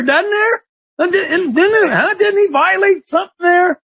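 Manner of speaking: rising preacher fervor. Real, not acted. Talk show host preaching about Jesus in the temple, building to a shout. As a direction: climb in pitch until you're shouting.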